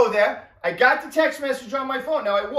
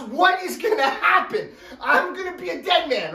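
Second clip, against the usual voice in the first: laughing through mock dread; 3 semitones higher than usual. Real, not acted. Narrator laughs imagining his wife's reaction, laughing higher. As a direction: chuckle while fearing the worst.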